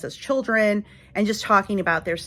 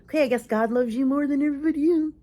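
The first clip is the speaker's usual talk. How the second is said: fast, higher sarcastic retort; dry mock reply; 6 semitones higher, faster than usual. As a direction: roll your eyes and say it. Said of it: "And you're like".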